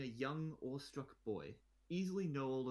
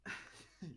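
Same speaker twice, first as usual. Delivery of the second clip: awkward laugh; 8 semitones higher, 5 dB quieter than usual. Acted. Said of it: "try your best to hide your embarrassment".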